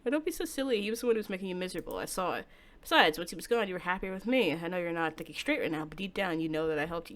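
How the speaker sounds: a hint of a hushed, menacing lover; lightly voiced calm stalker, soothing and sinister; quiet possessive captor; creepy soft-spoken boyfriend. Voices yandere Takuya.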